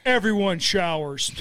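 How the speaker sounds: slow stern coach order; gym teacher voice. Pretend. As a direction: lay down the locker-room rule. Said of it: "like my seventh grade gym teacher".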